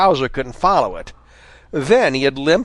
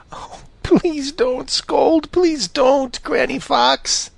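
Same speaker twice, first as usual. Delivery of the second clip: high, slow, pleading little fox; begging; 12 semitones higher, slower than usual. A narrator's reading. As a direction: beg her not to scold. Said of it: "begged Reddy".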